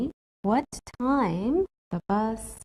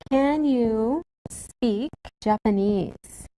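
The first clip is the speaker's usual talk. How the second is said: slow model question; slower than usual. Shown as a demonstration. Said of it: "What kind of question is this?".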